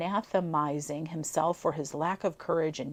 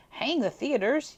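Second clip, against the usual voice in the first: higher, louder burst of frustration; exasperated outburst; 8 semitones higher, 6 dB louder than usual. A narrator's reading. Walter snapping at Jin's teasing, exasperated outburst. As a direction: blurt it out, fed up.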